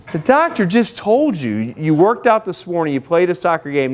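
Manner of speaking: 息子を叱る呆れた父親の口調、ゆっくり高めに; exasperated dad. Retold or imitated. Dad scolding his son.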